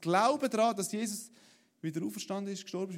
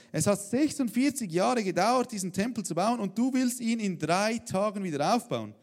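incredulous; 8 dB louder than usual. A narrator's reading. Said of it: "riefen sie aus".

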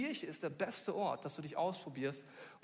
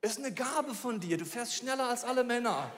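laughing consolation; 4 semitones higher than usual. Retold or imitated. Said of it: "hab ich gesagt".

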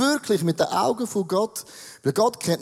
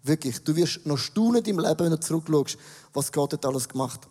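sincere prophetic; 5 semitones lower than usual. Retold or imitated. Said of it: "um dir zu sagen".

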